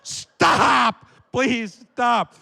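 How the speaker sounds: high, loud mock cry of agony; hammed-up begging, drawn out; pained pleading. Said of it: "I'm whimpering in pain".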